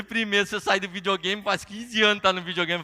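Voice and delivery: loud, exasperated dad; lightly hammed-up telling-off; mock parental scolding. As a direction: scold the kid with playful exasperation. Father scolds son in story.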